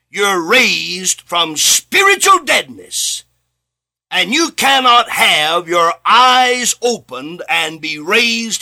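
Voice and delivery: slow, loud preaching on salvation. Acted. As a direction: lean into every word, proclaim it.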